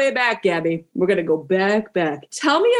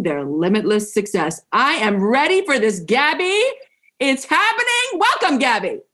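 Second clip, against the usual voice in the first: announcer voice; slower than usual. Acted. Host introducing her guest to listeners, announcer voice. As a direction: read the bio evenly, then lift into the welcome. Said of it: "love your announcer voice".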